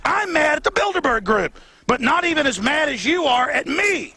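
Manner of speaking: retold angry comeback. Acting out his angry comeback.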